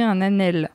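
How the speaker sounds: "Anel" said with a plain n; mispronounced Old French word. Acted. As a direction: say "Anel" without the gn sound. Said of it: "la mauvaise prononciation du mot Anel".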